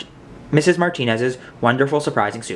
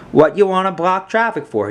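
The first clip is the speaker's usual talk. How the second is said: calling out; 6 semitones higher than usual. A narrator's reading. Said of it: "he called out".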